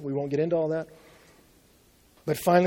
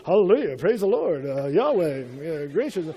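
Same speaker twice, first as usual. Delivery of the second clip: mock pious. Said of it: "you're like".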